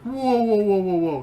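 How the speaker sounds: high, loud panicked whoa; startled yelling. Acted. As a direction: shout it in sudden alarm. Startled NPC backing away.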